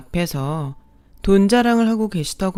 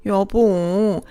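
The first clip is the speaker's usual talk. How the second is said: higher, louder indignant stepmother-in-law; stepmother-in-law appealing to her husband, outraged and whiny; outraged shrill protest; 5 semitones higher, 5 dB louder than usual. A narrator's reading.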